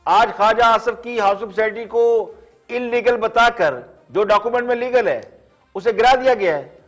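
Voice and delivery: measured, pointed TV commentary with falling phrase ends; pointed editorial read, phrase by phrase; scripted editorial monologue. Acted.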